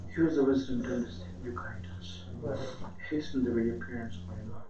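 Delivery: rapid, hushed supplication; closing prayer. Acted. The preacher closes the gathering with a hushed, rapid prayer. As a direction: rush through the dua under the breath.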